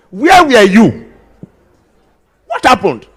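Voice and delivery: high, slow mock interrogation of a hanger-on; mocking a show-off. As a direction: ham up the busybody's nosy questions. Mocking show-offs with rich friends.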